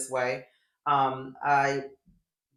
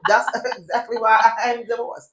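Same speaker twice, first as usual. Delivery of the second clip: laughing; 5 semitones higher than usual. Real, not acted. Laughing as she jokes to her co-host about her divorce. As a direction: chuckle as you admit it.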